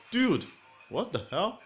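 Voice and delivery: a sudden cry of disbelief at the changed price; shocked outburst. A narrator's reading.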